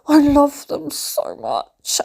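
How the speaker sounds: high, drawn-out mock swoon; re-enacted squeal of fan love; gushing outburst. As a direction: gush it slowly, hammed-up adoration. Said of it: "randomly running into the front room going".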